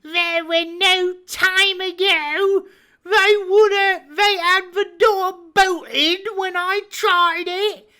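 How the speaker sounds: high, loud, commanding pirate; blind pirate voice. Acted. Blind beggar ordering his crew to scatter, commanding shout.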